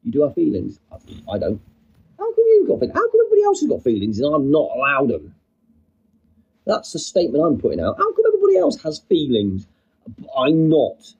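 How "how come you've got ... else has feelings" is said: mock protest. Streamer protesting to viewers about feelings, mock aggrieved. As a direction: play up being hard done by.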